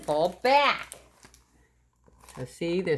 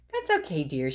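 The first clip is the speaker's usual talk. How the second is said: mother voice; 3 semitones lower, faster than usual. Acted. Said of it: "she said".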